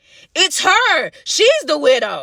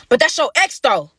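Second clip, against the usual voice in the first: retold loud callout; 4 dB louder than usual. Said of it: "as loud as I could".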